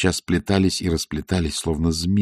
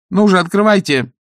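loud, higher call through the door; impatient demand; 12 semitones higher, 7 dB louder than usual. Acted. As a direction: bang on the door and demand it open. Magrat knocking, demanding entry.

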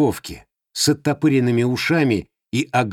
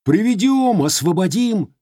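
sarcastic grumble; 7 semitones higher than usual. Acted.

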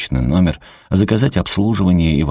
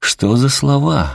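scolding; 9 semitones higher, slower than usual. A narrator's reading. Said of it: "одёрнула Уэйда".

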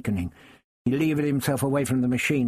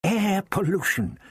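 put-on alarmed old man; 8 semitones higher than usual. Doctor's alarmed revelation.

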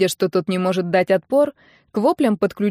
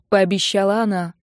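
usual speaking voice

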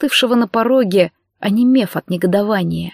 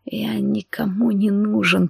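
slow, breathy whisper; slow hushed confession; 5 dB quieter, slower than usual. A narrator's reading. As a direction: whisper it so only he hears. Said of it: "зашептав".

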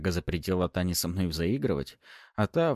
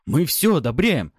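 slow, higher, louder defensive plea; hasty protest; 8 semitones higher, 7 dB louder than usual. A narrator's reading. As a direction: insist nervously. Frightened boys protesting.

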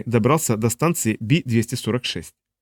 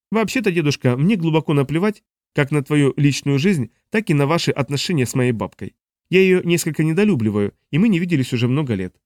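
put-on smug young man; 3 semitones higher than usual. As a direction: play the cocky grandson. Narrator voices young Dun.

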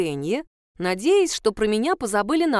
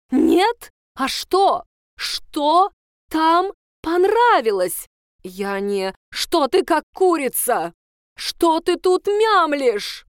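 much higher, louder, slow furious shouts; yelling teacher; 7 semitones higher, 5 dB louder, much slower than usual. Acted. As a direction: scold her for mumbling. (кричит и отчитывает)

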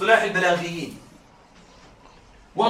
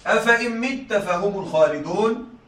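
slow, measured recitation of the verse; Quran recitation. Shown as a demonstration. Teacher reciting a verse to students, slow and measured. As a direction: recite it slowly and reverently. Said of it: "هذه جملة".

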